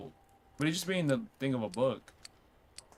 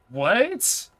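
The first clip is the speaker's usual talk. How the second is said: loud, high rising yelp of disbelief; shocked; 10 semitones higher, 9 dB louder than usual. Real, not acted. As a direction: cry out in shock, pitch leaping up. Startled by ritual note.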